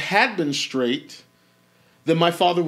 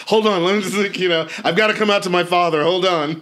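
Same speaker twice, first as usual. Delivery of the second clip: excited; 3 semitones higher, 5 dB louder than usual. Retold or imitated. Excited retelling of call.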